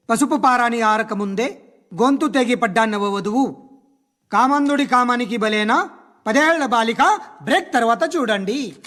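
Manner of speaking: slow, dramatic headline delivery; mock TV crime presenter. Police officer mocking crime shows to journalists, mock TV presenter. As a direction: parody a sensational news teaser. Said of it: "ఎంతో ఆనందంగా, ఇంట్రెస్టింగ్గా చెప్తారు".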